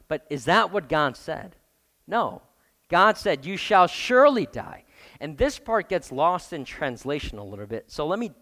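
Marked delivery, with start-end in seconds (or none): 3.4-4.8 higher and louder, each word weighted; emphatic. Shown as a demonstration. Loud, weighty warning. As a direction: pastor quotes God's warning with full force. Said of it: "But he says it twice".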